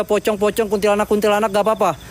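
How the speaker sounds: high, sing-song coaxing voice; coaxing ghosts. Pretend.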